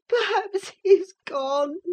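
high, slow tearful he's rising; sobbing. A narrator's reading. Catherine fearing Heathcliff left, high and weeping slowly. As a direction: let "he's" rise high through sobs, slowly. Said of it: "beginning to sob bitterly".

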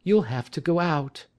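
a wife noting the caller; wife's voice. A narrator's reading. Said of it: "said she".

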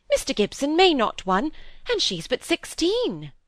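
lightly voiced gossiping sister. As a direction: lightly play an eager gossip sharing news. Miss Browning breaks gossip to sister.

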